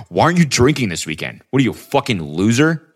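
jeering friend, pitch pushed up; mocking peer pressure. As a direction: shame them like a pushy drinking buddy. Mocks friends shaming a non-drinker.

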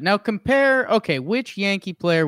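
loud game-show announcer; announcer shout. Pretend. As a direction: call it out like a host. Game show host call.

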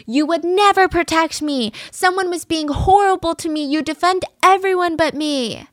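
half-hearted imitation of her screaming; retold scream. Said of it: "she starts full on screaming at him".

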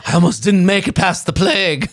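hammed-up old-timey sufferer; mock plague survivor. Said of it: "eighteen fifties of her".

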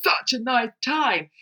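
proud parent's put-on gushing voice; doting parent voice. Parent blocking the pavement, gushing over their toddler. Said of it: "as if to go".

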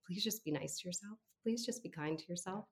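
soft, tender urging to a client; softly imploring, as a retold therapist's appeal; gentle plea.

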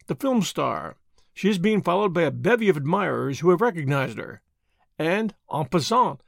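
lightly voiced Belgian detective, smug; a hint of a self-satisfied foreign sleuth; Poirot voice. Poirot speaks.

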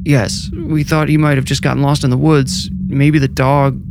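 a frightened mother holding back tears; lightly voiced tearful mother asking about her son; wet, tearful. A narrator's reading. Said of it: "Josh's mother said wetly".

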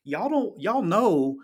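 smack them upside the head with it; mock-furious rant at rival coaches; exasperated telling-off. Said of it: "I wanna just smack everybody upside the head and go".

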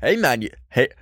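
hammed-up redneck Canadian; mock Canadian hick accent. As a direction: attempt a rural Canadian accent, breaking into laughter. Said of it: "a really redneck Canadian accent".

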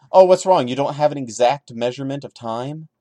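mocking concern. Real, not acted. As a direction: fake worry to mock him. Mocking the vague writing.

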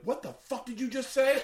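high, loud mock outrage; outraged crowd shout. Crowd turning on the driver, high outraged shout. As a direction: yell it like an offended crowd.

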